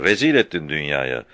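heated rebuke; angry scolding. A narrator's reading. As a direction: berate Murtaza. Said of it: "dedi öfkeyle".

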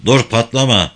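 talking through the teeth, jaw numb; through clenched teeth. Acted. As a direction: mumble with the jaw held still. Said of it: "dişlerinin arasından konuşuyordu".

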